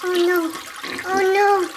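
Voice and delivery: high, fast panicked rush; panicking. Acted. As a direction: blurt it out as the water spreads. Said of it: "I'm freaking out".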